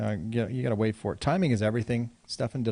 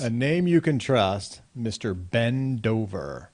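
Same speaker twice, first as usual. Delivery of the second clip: slow announcer read of a sign; slow mock commercial voice. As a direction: sell it like a cheesy realtor ad. Reading realtor sign slogan aloud.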